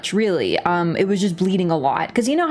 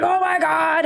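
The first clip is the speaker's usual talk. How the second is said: mom's gasp; 9 semitones higher than usual. Retold or imitated. Mom freaking out.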